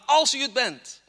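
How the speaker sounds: "Als u het bent" with "Als" stressed, falling at the end; doubtful. Acted. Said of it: "Hij wist het niet zeker".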